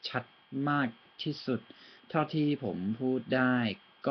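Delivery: speaking Thai as clearly as possible; careful, clear Thai accent. Shown as a demonstration. ตั้งใจพูดให้ชัด. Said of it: "really trying to focus on my accent".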